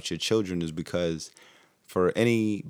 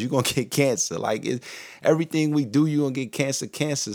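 higher-pitched, fast, exasperated venting; worked-up rant; 5 semitones higher than usual. Real, not acted. Telling listeners everything gives cancer, worked-up and higher. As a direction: get heated and climb higher as the list goes on.

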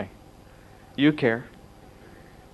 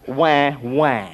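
mock baby cry; 3 dB louder than usual. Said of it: "I'm a big baby".

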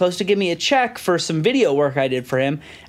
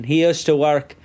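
lower, imitated Scottish speech; Scottish accent; 4 semitones lower than usual. Scottish friend revealing the mafia link, Scottish accent. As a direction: put on a passable Scottish accent. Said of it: "That's good".

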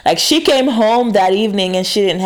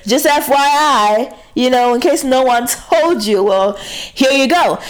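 sassy callout; 5 semitones higher than usual. Retold or imitated. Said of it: "you gotta let a bitch know".

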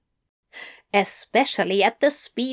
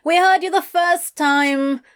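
high, loud, impatient; impatient shout; 9 semitones higher, 5 dB louder than usual. Acted. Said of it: "Adam shouted impatiently".

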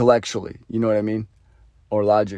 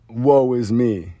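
slow, drawn-out poor-me whine; hammed-up woe-is-me; mock self-pity; much slower than usual. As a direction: play the pitiful victim. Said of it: "it went from a tough guy to".

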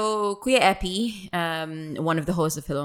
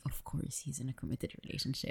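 much softer, resigned mutter; deflated; 5 semitones lower, 17 dB quieter, faster than usual. Retold or imitated. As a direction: let the hope drain out. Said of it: "I'm like".

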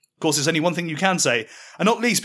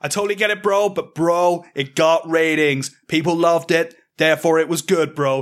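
put-on New York accent. New York bro voice answering.

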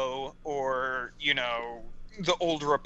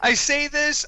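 Louis C.K. voice; 11 semitones higher, 5 dB louder than usual. Pretend. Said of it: "in the Louis C K method".

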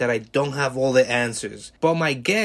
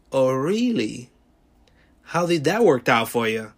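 snarky tone; 3 dB louder than usual. Retold or imitated. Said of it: "with a snarky tone".

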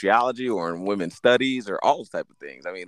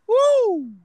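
very high, loud party whoop; frat bro whoop; 8 dB louder than usual. Real, not acted. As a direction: whoop like a frat guy cheering. Whoop reacting to the story.

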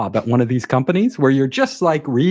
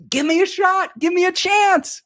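whiny begging. Retold or imitated. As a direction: drag out the plea like a whining kid. Second plea to the boss.

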